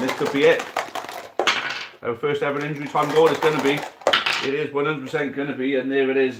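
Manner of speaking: hyped-up goal call; rising excitement. Acted. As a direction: call the winning goal as it happens. Injury time goal about to be scored.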